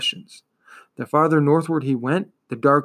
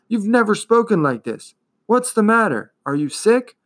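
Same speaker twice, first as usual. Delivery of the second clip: higher-pitched, mildly alarmed questioning; astonished; 8 semitones higher than usual. A narrator's reading. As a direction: ask in worried disbelief. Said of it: "Atreyu was astonished".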